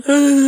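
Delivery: heavy breathy huh; mimicking the friend's sigh; imitated heavy sigh. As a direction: let out a heavy sigh like her. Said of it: "macam tu tau".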